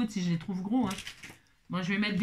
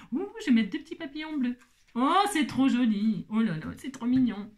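haut et ravi, ouh traîné; s'émerveille des papillons; ravie; 2 semitones higher than usual. Real, not acted. S'extasie sur les papillons bleus. (ravie, voix haute)

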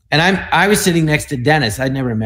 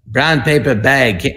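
a slow, lightly voiced Dana Andrews; Dana Andrews impression; slower than usual. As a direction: draw out "Brown paper bag" slowly like an old film hero. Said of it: "trying to do Dana Andrews from the movies".

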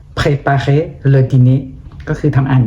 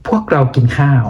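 ordinary talk, nothing marked

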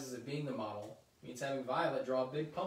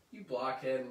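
louder scolding shout at a little brother; mock yell; 4 dB louder, slower than usual. Lucy yelling at her brother Linus, mock yell. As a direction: bark the insult at him. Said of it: "Lucy yells at her brother".

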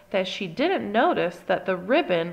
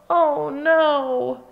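panicked cry; 6 semitones higher, 6 dB louder than usual. A narrator's reading. Angelina panics.

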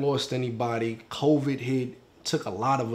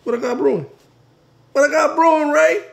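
high, increasingly loud challenge; indignant comeback; 12 semitones higher, 8 dB louder than usual. Acted. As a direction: throw the accusation back, louder each time. Acted quarrel, indignant comeback.

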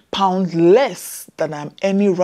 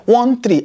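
ONE THREE said higher, each digit on its own; emphatic repeat; 5 semitones higher, 4 dB louder than usual. Real, not acted. Nurse confirming her shocking hourly pay to viewers, emphatic. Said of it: "Yes, you heard me right".

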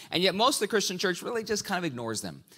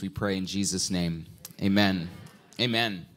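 prayer; 3 semitones lower than usual. Real, not acted. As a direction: pray aloud to the congregation. Opening prayer.

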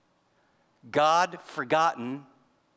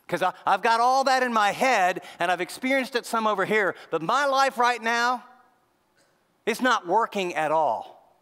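higher-pitched, exasperated plea to God; acted exasperation, pushed up; frustrated protest; 4 semitones higher, 3 dB louder than usual. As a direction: protest it as someone let down, pitch raised. Voicing the psalmist's protest to God.

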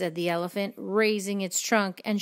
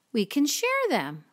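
high, friendly storybook voice; friendly suggestion; 9 semitones higher than usual. A narrator's reading. Friendly ladybug offering to share breakfast, high and friendly. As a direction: offer it kindly, pitched high. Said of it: "suggested the friendly ladybug".

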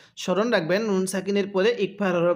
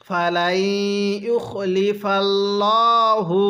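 drawn-out chanted recitation; slow melodic Quranic chant; much slower than usual. Shown as a demonstration. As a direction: recite it like a tajweed teacher. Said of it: "কিভাবে?".

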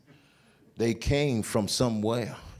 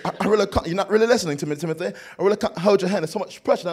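higher London wife voice; mimicked British accent; 5 semitones higher, 4 dB louder, faster than usual. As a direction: scold him in a put-on British accent. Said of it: "she talked with this accent just like this".

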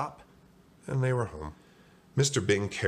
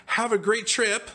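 high, drawn-out send-off; high, stretched cheerful holler; cheery yell; 4 dB louder than usual. Acted. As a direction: call it out slowly, way up high. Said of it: "Arnie yelled to each donut".

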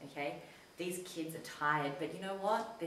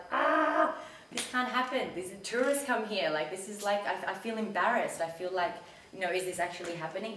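higher, louder, rattled and embarrassed; upset outrage; 4 semitones higher, 5 dB louder than usual. Retold or imitated. Seeing the Nazi flag on the tourist strip, louder upset outrage. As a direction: pour it out, worked up and ashamed.

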